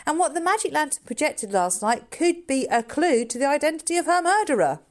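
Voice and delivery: a hint of an eager boy building his theory; boy Andrew. Andrew voiced in the story.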